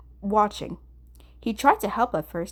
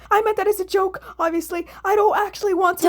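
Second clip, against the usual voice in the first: much higher, loud flustered protesting; frantic protest; 11 semitones higher, 6 dB louder than usual. Acted. Atsushi frantically protesting to the frozen office, loud and high. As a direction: scramble to take it back.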